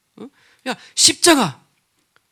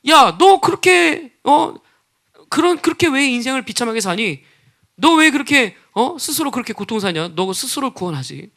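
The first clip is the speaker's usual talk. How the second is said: mocking. Bystanders taunting Jesus on the cross, mocking. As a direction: jeer at him as a scornful bystander. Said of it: "지금 조롱하는 거예요".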